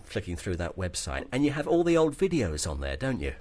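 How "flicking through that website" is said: hoarse, croaky morning voice; a rough, croaky throat. Real, not acted. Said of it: "behind my croaky voice this morning".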